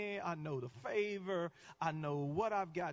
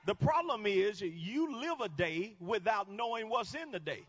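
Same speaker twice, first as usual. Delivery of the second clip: ordinary talk, nothing marked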